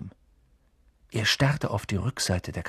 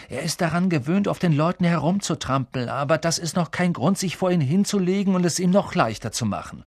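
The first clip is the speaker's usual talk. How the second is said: Ron urging; 7 semitones higher than usual. A narrator's reading. Ron urges Neville to resist.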